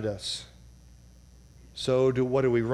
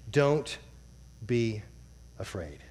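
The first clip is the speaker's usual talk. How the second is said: "Don't be afraid" spoken softly, the word "afraid" almost breathed out; soft, fading to near silence; 5 semitones lower, 5 dB quieter, slower than usual. Shown as a demonstration. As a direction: let "afraid" die away into a hush. Reading verse, then repeating it.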